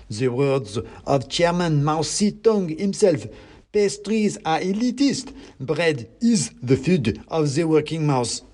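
high, slow pamphlet oratory; declaiming mouse revolutionary. A narrator's reading. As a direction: quote doctrine solemnly as a tiny agitator.

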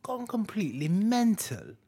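mock British accent. Still mimicking British slang, soft mock British accent. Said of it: "I'm literally mocking".

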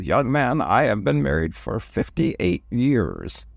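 slow, lightly voiced old man; old man slowly tells the groom about his marriage, a hint of age. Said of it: "he goes".

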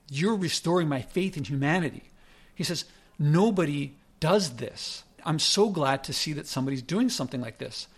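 hint of a Long Island construction worker; Long Island accent. Construction worker praising him, in a faint Long Island accent. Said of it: "but a Long Island accent".

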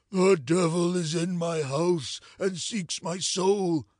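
hollow, doleful lament; mournful tones. Acted. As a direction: let it drag out mournfully. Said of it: "his voice escaped in mournful tones".

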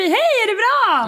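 high, slow, showy-casual hello; breezy mock greeting. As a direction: greet the ex as if nothing's wrong. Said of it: "Går bara förbi". (överdrivet nonchalant hälsning, ljus och långsam)

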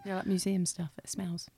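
whispering. Real, not acted. Whispered aside about museums.

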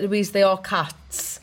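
slowly spelled out, stress on "are"; patient reminder. Retold or imitated. Girlfriend reasoning with a partner who takes it personally, slow emphasis on "are". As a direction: draw out "they are cats", leaning on "are". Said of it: "Sometimes Heather's gotta be like".

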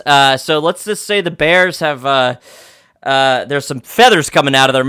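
folksy play-by-play announcer; sportscaster voice. Pretend. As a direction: call the scores like a TV sportscaster. Mock sportscaster reading game scores.

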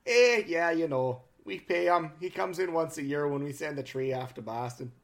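put-on lightly done Canadian accent, eh; a hint of a Canadian accent. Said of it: "your Canadian accent".

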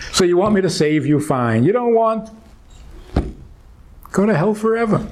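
high, mocking voice of a spiteful god; mock harsh god. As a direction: sneer out the rejection. Voicing a harsh, rejecting God.

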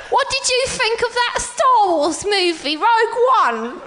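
giggly mock actress interview; imitating Felicity Jones. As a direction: play the starlet at a press interview. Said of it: "my only two impersonations".

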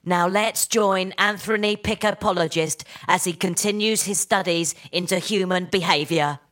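same wooden read, no change; bad acting. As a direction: deliver it stiff and lifeless. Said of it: "not sure it's quite the vibe".

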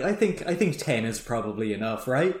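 tentatively sounding out a partner, level; Danny. Retold or imitated. Danny runs the crew size past Rusty, tentative. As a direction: float it casually, ending on a checking question.

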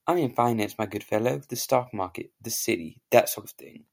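put-on posh British accent. A posh Englishman greets an American, in a British accent. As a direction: play the proper English gent. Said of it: "I have a very good British accent".

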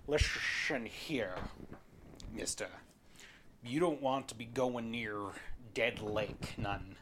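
lightly voiced grizzled old fisherman; gruff old fisherman. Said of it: "Thank you, Sean Connery".

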